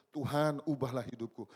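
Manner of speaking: a loud earnest plea; pleading prayer. Retold or imitated. Preacher retelling his repeated prayer, loud earnest plea. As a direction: beg God to change your life. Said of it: "Berulang-ulang saya bilang".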